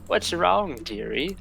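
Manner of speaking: lightly voiced sweet old hag. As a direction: coax like a sugary witch. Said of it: "the hag says".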